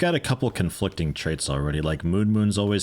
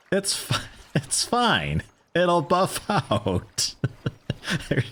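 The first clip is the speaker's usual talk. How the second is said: laughing; 10 semitones higher, much slower than usual. Real, not acted. Laughing at wrecked car.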